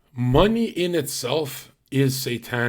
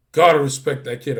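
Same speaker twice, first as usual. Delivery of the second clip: said through a laugh, louder; 9 dB louder than usual. Retold or imitated. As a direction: chuckle while grudgingly conceding. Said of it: "Gary's like this".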